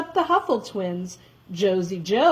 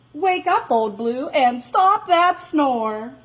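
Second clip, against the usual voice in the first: calling out; 4 semitones higher than usual. Acted. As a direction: wake the dog up with a call. Jack calling the dog.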